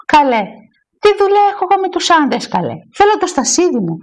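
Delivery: quick, high-pitched huff; mildly scandalised refusal; indignant protest. Acted. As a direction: protest as an affronted church lady, then settle on the demand. Woman indignantly refuses to ask men.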